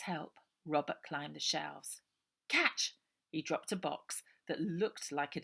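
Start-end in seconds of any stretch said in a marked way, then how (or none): 2.5-3.0 put-on high, loud boy yelling get off; an irritated kid shoving someone away; cross young boy. A narrator's reading. Robert calling.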